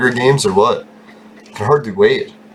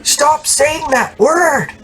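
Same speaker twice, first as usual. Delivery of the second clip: high, slow, drawn-out prim scold; scolding lady; much slower than usual. Retold or imitated. Break-room lady scolding the guys, high drawn-out prim voice. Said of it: "she'd be like".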